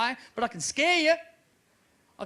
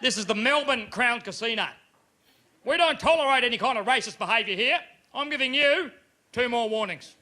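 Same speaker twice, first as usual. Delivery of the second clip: louder, stern Aussie pit boss; pit boss telling off; 3 semitones higher, 3 dB louder than usual. Retold or imitated. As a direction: scold the drunk punter firmly. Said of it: "The pit boss has come up to me".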